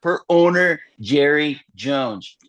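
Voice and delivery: high, quick news-insider read; Adam Schefter impression. Breaking the news as Schefter on air, brisk insider voice. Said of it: "yeah, I'm gonna read it".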